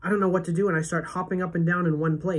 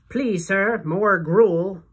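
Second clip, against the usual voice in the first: louder pleading orphan voice; Oliver Twist beggar; 4 semitones higher, 7 dB louder, much slower than usual. Retold or imitated. Friend begging for more food, hammed-up orphan plea. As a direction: beg like a Dickens orphan. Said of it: "he always says".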